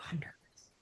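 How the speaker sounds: soft whispered nervous voice. Retold or imitated. Imitating a nervous spirit, whispered. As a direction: breathe it out nervously. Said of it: "but she was nervous".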